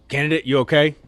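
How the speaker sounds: brisk sergeant check-in; drill sergeant voice. Retold or imitated.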